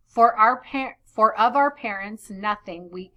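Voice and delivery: put-on measured reading of old verse; storyteller's verse voice. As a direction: read the poem aloud to the class. Reads verse translation aloud.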